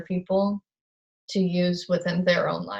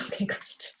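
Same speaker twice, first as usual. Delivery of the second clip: laughing; 5 semitones higher, 8 dB quieter than usual. Real, not acted. Laughing at mirrored screen.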